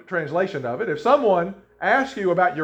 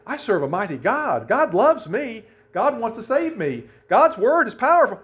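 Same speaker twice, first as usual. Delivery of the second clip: confident affirmation; 4 semitones higher than usual. Retold or imitated. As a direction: declare it with rising faith. Voicing confident self-affirmation.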